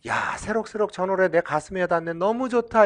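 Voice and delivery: acting out a listener touched by a song; moved listener. Lecturer imitates a listener won over by a song, mildly gushing. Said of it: "이렇게 판단하는 사람이 있고".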